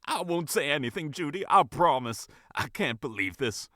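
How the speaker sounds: high, squeaking and upset; squeaky voice. A narrator's reading. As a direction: let the voice squeak up. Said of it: "Her voice squeaked a little".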